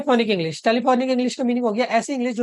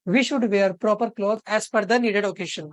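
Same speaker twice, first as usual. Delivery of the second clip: slow dictation; much slower than usual. Shown as a demonstration. Reads the key sentence slowly.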